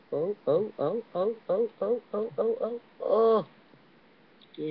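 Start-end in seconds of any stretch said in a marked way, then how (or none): 0.1-3.4 quick ohs climbing higher and higher; rising gamer's panic; mounting suspense. Real, not acted. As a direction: build from tense little ohs to a high cry. Tense moment during a jump.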